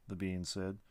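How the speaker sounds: plain reading voice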